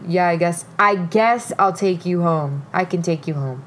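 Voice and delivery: mock grudging reluctance, dragging on "I guess"; bitchy. Date grudgingly offers a ride home, imitated bitchy tone. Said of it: "like, in a bitchy way".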